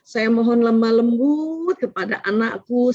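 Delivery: lifted, earnest supplication; prayer demo. Shown as a demonstration. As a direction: pray it aloud like a pleading parent.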